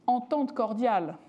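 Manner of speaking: entente cordiale said with her French accent. Real, not acted. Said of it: "with my French accent".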